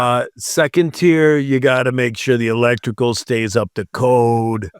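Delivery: light mock German accent on the rules; hint of a put-on German accent. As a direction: lay on a playful German accent, bureaucrat listing rules. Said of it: "This is my German accent".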